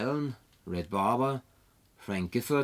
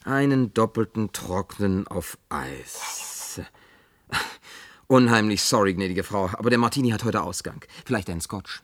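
louder mock-formal barkeeper, repeating the order slowly; playing bartender; 4 dB louder than usual. Man plays barkeeper repeating the woman's order, loud and mock-formal. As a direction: drag out the order like a fussy waiter.

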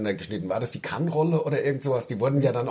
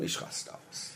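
whispered; 16 dB quieter, much slower than usual. Real, not acted. Shocked at the podcast length.

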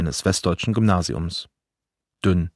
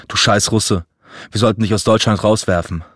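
sharp insult; 4 dB louder than usual. Acted. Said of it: "Die Worte ... explodierten ... Scharf".

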